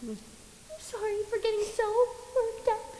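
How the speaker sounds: soft, quick sheepish apology. Acted. Angel apologising to a visitor after shouting, soft and sheepish. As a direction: apologise softly, coming down from an outburst.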